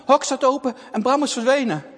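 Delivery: usual speaking voice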